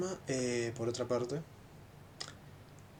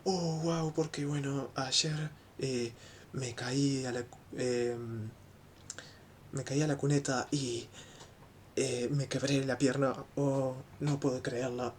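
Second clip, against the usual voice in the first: mock cheerful; 3 dB louder, slower than usual. Shown as a demonstration. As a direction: chirp the broken leg like great news. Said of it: "queriendo transmitir a-, alegría".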